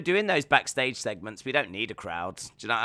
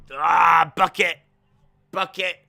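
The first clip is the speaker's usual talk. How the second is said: acted yell; 4 semitones higher, 9 dB louder than usual. Acting out the imagined carnage.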